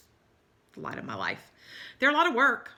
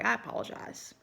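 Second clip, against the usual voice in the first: said through a real yawn; words stretched by a yawn; 3 semitones higher, 3 dB quieter than usual. Real, not acted. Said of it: "Shouldn't be yawning at y'all".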